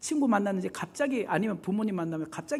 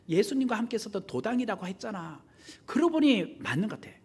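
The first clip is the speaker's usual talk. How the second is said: loud, higher, insistent accusation; forceful insistence; 5 semitones higher, 4 dB louder than usual. Retold or imitated. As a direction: pin him down with a forceful claim. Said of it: "강하게 그 사람이 주장을 했다는 거예요". (강경하게 몰아붙이는 큰 목소리)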